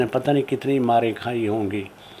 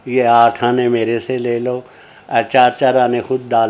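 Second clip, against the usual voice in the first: fed-up scolding; 8 dB louder than usual. Retold or imitated. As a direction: scold the students who keep making mistakes. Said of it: "जब वो तंग आ गए".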